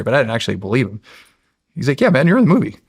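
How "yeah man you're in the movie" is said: retold excited news. Retold friend breaking surprising good news.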